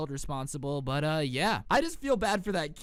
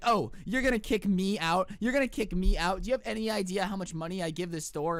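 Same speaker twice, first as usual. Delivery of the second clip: mock Karen. Storyteller mocking the Karen customer, outraged. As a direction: act the indignant customer. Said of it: "she's like".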